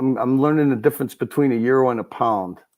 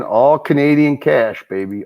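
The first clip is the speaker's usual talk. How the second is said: louder, punchy hype call; hyped-up; 4 semitones higher, 4 dB louder than usual. Pretend. Host hyping donation totals to the chat, excited and punchy. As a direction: sell it like a game show win.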